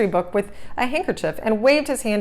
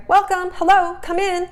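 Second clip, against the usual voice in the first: eager greeting; 11 semitones higher, 3 dB louder than usual. A narrator's reading. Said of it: "Arthur cried".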